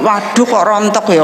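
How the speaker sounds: a lightly fretful sigh over falling hair; mock complaint. Shown as a demonstration. Preacher mocking the wrong way to talk to hair, mild fretting. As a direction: grumble it half-heartedly. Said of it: "saya nggak ngomong ini".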